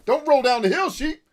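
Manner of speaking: high, loud call after runaway sheep; high-pitched mock scolding yell; playful holler. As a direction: shout at the escaping sheep. Calling after fleeing game sheep.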